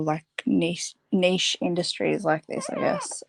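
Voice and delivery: talking while spinning on a chair; spinning in office chair. Real, not acted. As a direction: swivel in the chair as you talk. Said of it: "sorry, I'm spinning on my chair a little bit".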